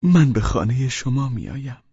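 high, kindly character voice; friendly, high-pitched tone. A narrator's reading. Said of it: "با لحنی مهربان گفت".

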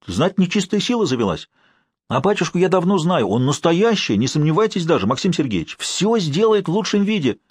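put-on an anxious old man explaining himself; old caretaker. A narrator's reading.

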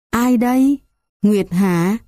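put-on high, dazed old woman's voice; an old woman half waking from a dream, bewildered. Dazed old woman finding Nguyệt. (giọng bà cụ bàng hoàng, cao giọng)

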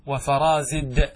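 slow, careful dictation of the example forms; drawn out so students catch each word; slow demonstration. Shown as a demonstration. Teacher spelling out the examples slowly for students. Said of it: "كيف نقول على اللغة الأولى؟".

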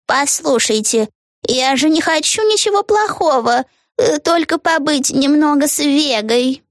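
high, slow, sugary old witch playing innocent; innocent lamb tone. A narrator's reading. Old witch to Vega, playing the innocent lamb. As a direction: act sweet and harmless, high up. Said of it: "тоном невинной овечки".

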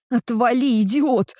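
angry snap. Acted. Girl shoving off the teasing boyfriend, loud angry bark. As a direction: bark him away, furious. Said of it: "рявкаю я".

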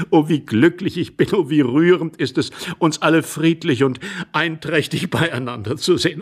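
effusive, sentimental exclamations; gushing relieved husband. Acted. Intruder relieved that all is peaceful, gushing happily. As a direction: gush with joy, then seek agreement.

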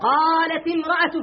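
قالت امرأة joined as "qālati mra'a"; linking vowel on t. Shown as a demonstration. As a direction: give the ت of قالت a short i into امرأة. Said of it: "حركنا التاء لالتقاء الساكنين".

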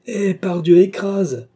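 loud, high, exasperated order; impatient command. A narrator's reading. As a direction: override the coachman forcefully. Baron overrules coachman impatiently.

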